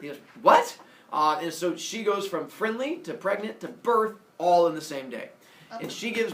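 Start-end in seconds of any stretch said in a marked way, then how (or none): 0.4-0.8 very high, loud shocked what. Acted. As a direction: yelp it in disbelief. Zeus shocked.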